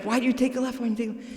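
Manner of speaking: high-pitched mock nagging, not shouted; agitated navigator. Imitating the navigator's repeated complaint.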